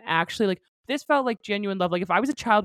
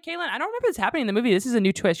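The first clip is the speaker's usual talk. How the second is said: rushed, higher insistence; fast higher protest; 4 semitones higher, faster than usual. Retold or imitated. Mariah re-enacting telling Caitlin, fast and high. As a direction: blurt it out, shocked. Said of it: "That's literally how I said it".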